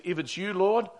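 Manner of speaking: lightly acted calling out across water; mild mock yell. Peter calling to Jesus from the boat, mild mock yell. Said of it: "And he's yelling out".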